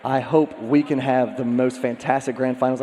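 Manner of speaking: losing voice. Real, not acted. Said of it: "I'm starting to lose my voice".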